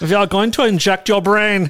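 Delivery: put-on heavy German accent. Mocking the pre-bunking of naughty information, in a thick german accent. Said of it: "Can he say that with like a really thick German accent?".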